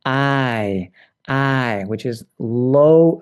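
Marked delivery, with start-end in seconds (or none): 0.1-1.8 long glide from "ah" to "ee" in I; North American vowel. Shown as a demonstration. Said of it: "North American".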